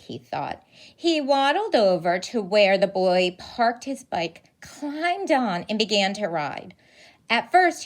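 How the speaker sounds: lively picture-book read-aloud; animated storybook narration; reading to children. A narrator's reading. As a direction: tell it like storytime for little kids.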